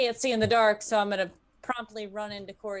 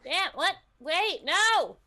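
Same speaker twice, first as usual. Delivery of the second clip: higher, startled protest; alarmed; 10 semitones higher, 4 dB louder than usual. Real, not acted. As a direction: caught off guard, protesting. Player alarmed at split.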